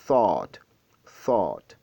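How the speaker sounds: "thought" with a drawn-out open vowel; stretched vowel. Shown as a demonstration. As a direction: lengthen the middle of "thought", falling. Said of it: "vous étirez un peu la prononciation".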